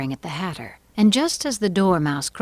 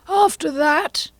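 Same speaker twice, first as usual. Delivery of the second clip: Hatter; 12 semitones higher, 6 dB louder, slower than usual. Acted. Hatter continues his testimony.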